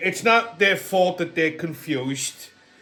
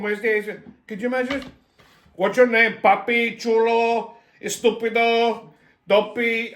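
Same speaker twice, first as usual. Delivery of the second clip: put-on Puerto Rican accent; 4 semitones higher than usual. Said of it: "Could you imagine this?".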